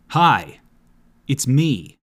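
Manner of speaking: lightly voiced metalhead dude; a hint of a dopey metal guy; Barry the Metal Guy. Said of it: "As a character called Barry the Metal Guy".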